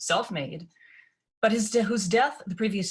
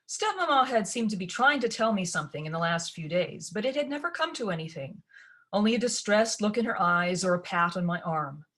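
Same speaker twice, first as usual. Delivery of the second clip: ordinary delivery, nothing marked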